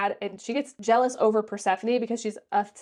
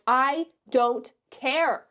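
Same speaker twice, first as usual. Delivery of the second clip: slow, drawn-out "I don't care"; dismissive; 4 semitones higher, much slower than usual. Real, not acted. Reviewer brushing off the love interest, slow dismissive drawl. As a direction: drag it out, unimpressed.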